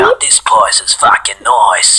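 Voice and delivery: put-on Aussie voice with swinging pitch; Crash Bandicoot, Australian. Shown as a demonstration. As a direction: ham up the Australian accent. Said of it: "I might as well do the voice of Crash".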